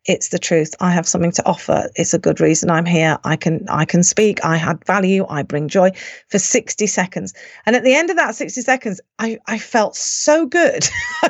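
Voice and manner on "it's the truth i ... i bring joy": low, even self-reassurance; retold self-affirmation. Speaker steadying herself before speaking, retold self-affirmation. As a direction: recite short affirmations to yourself in a lowered pitch. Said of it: "I keep saying to myself".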